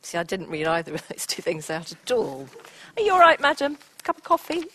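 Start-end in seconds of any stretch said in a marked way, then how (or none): 2.9-4.6 mock concern. Presenter teases a yawning audience member.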